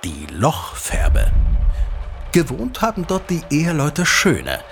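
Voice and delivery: unhurried legend-telling voice, drawing the listener in; storyteller narration. Acted. Father telling his son the local legend, storyteller narration. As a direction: tell it like an old tale by the fire.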